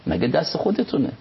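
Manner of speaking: lifted, emphatic divine voice; a hint of God's commanding tone; voicing God. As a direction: speak as God, declaring firmly. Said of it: "خدا میگه".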